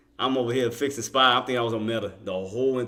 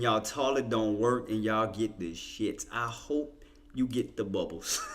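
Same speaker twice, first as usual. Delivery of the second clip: mock curse; 4 semitones lower, 7 dB quieter, slower than usual. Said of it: "I'm just kidding".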